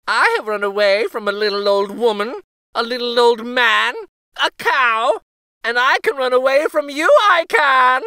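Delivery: high, loud and fast taunt; laughing gingerbread boy. A narrator's reading. Gingerbread boy taunting the cow, high fast bragging. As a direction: brag quickly with a laugh. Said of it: "he said".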